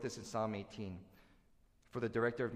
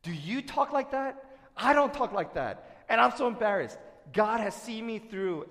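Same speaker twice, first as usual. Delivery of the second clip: ordinary delivery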